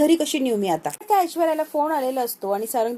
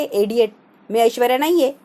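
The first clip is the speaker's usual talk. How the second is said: a mildly raised angry yell at a stranger; angry shout; 4 dB louder than usual. Acted. Stranger girl pushes away drunk Sarang, mock angry shout. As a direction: snap it out, half-shouting. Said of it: "ती अशी ओरडते".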